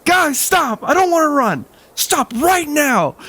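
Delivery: high, whiny bratty yell, slowing at the end; high whining shout to the running friends; whiny kid yelling. Retold or imitated. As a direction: whine it like a spoiled kid left behind. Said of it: "so he yelled at us".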